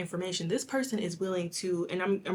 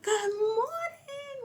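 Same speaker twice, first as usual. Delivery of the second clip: yelled greeting; much slower than usual. Retold or imitated. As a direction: call it across the gym. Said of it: "Like, yelling".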